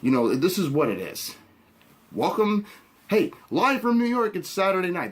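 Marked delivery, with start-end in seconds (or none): 2.1-5.1 lightly hammed-up show opener, higher; a hint of an announcer calling out the opener; SNL host announcement. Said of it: "that Melissa McCartney's gonna say".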